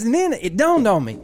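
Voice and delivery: mock rant, jumping high and loud at the end; exasperated boss, played for laughs; retold fury. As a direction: imitate a boss working herself up. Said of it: "I was losing my shit".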